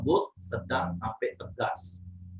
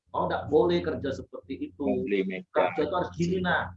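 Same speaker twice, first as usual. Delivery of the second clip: demonstrated firm correction, pitched up; firm raised-tone rebuke; 6 semitones higher than usual. Shown as a demonstration. Leader correcting a worker for their own good, firm rebuke. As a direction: correct them with a mildly raised intonation. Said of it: "intonasi kita boleh, boleh tinggi".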